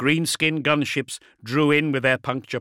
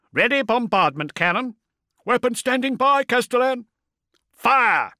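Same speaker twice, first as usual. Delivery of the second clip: shouted battle orders; 13 semitones higher, 5 dB louder than usual. A narrator's reading.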